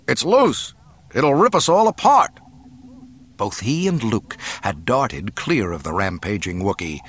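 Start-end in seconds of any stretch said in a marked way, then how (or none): 0.1-2.4 loud, high feigned panic; shouted alarm. A narrator's reading. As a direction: yell as if a beast is loose. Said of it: "Solo shouted".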